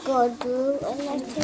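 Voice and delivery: fast. Real, not acted. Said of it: "Now say it fast".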